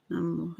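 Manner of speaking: "Namo" with a short first syllable like hum, the o held long. Shown as a demonstration. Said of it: "first part of Namo is short and rhymes with hum".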